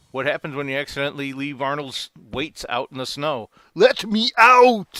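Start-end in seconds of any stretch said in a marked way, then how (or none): 3.7-5.0 very loud, high-pitched, full-blast yell. Delivering the punchline of a joke about letting Arnold out, doing an Arnold Schwarzenegger impression. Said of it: "jokes that involve letting Arnold out".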